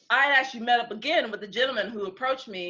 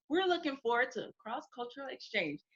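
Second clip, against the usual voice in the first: quoting the dossier; 4 semitones higher, 10 dB quieter than usual. Retold or imitated. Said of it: "it all said the same thing".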